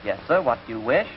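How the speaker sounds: a touch of the formal, low-voiced waiter. Waiter to seated customer, lightly formal low voice. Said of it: "The waiter came over to him".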